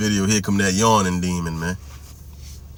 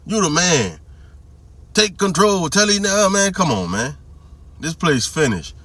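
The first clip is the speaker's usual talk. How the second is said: raised, preachy mock lecture to women; mock pep talk, higher; mocking America's message; 4 semitones higher than usual. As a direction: hype women up sarcastically, pitched higher. Mocking what America teaches women.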